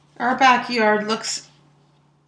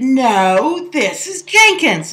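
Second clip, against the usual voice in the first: put-on childish retort, higher and louder; replying like a kid; 3 semitones higher, 5 dB louder, much slower than usual. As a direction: talk back like a stubborn child. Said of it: "I replied like a kid".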